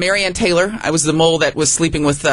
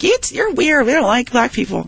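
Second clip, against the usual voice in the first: higher, snotty schoolkid taunt; mocking schoolkids; 7 semitones higher than usual. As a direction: taunt like mean classmates. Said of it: "they're like".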